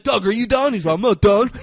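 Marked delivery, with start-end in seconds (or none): 0.0-0.7 mock yell. Retelling friend yelling at Doug. 0.9-1.5 mock angry yell. Doug's retold angry reply.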